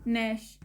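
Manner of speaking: नैश said "nash"; no g in front of नैश; silent G. Shown as a demonstration. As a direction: begin नैश on a clean n. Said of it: "जी यहाँ पे silent".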